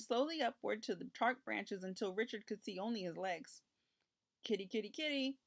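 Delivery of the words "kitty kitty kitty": high, light coaxing call. A narrator's reading. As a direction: gently tempt a kitten out, pitched up. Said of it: "coaxed, coaxed Richard's father".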